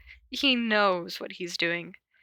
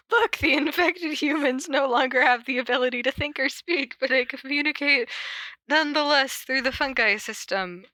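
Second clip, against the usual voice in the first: louder TV narrator; 4 semitones higher than usual. Acted. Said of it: "The volume turns up".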